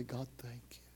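soft, breathless whisper of thanks; hushed, intimate thank you to God; whispered prayer. Shown as a demonstration. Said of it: "come before you and say".

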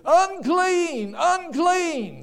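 high loud cry of unclean; calling out. Retold or imitated. Preacher picturing himself as a leper, high cry. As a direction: cry out unclean as you walk. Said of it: "you said".

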